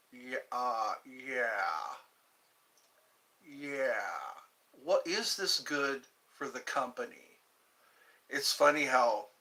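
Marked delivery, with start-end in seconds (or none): 0.1-7.4 Lumbergh drone. Retold or imitated. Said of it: "the guy who played Lumbergh".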